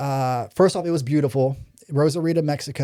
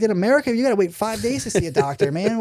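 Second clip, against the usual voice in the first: higher-pitched, incredulous protest; retold disbelief; 5 semitones higher than usual. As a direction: replay being amazed at the doctor. Retold disbelief at instant doctor care.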